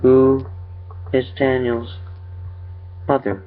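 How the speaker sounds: high, halting eerie creature. A narrator's reading. Creature interrogates the father about his son, high and halting. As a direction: pitch it up with uncanny gaps between words.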